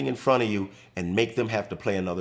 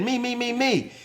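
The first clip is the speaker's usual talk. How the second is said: much higher, urgent repeated me; hammed-up teammate insisting he'll take it; frantic retold reply; 12 semitones higher than usual.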